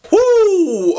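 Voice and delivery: high loud whoop; 1 loud woo. Real, not acted. Vlogger hyping up the next question with a loud woo. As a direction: whoop it out like a hype man.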